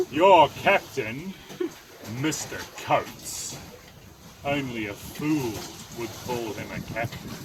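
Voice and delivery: a hint of a pompous sea god; King Neptune voice.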